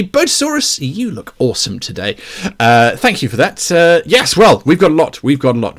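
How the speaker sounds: sounding like inside a tin can. Real, not acted. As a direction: voice off-mic, hollow and tinny. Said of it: "sound is a bit like a metal tin can".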